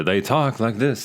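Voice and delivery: lightly imitated old Hollywood accent; Katharine Hepburn. Shown as a demonstration. Podcaster showing how forties stars talked, light old Hollywood accent. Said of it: "think of Katharine Hepburn".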